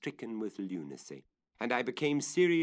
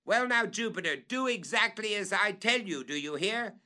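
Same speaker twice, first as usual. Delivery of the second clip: higher, louder firm order; calling up; 12 semitones higher, 5 dB louder than usual. Acted. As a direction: demand his attention.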